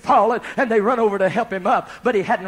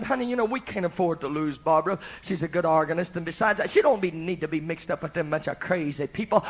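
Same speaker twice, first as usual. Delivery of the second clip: hushed confiding; 4 semitones lower, 5 dB quieter than usual. Retold or imitated. Vicar confides in his wife.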